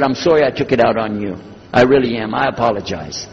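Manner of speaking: low, subdued acted apology. Sick priest apologizing to the preacher, low and subdued.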